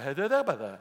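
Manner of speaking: slurred numb-tongue babble. Retold or imitated. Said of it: "and my tongue was numb".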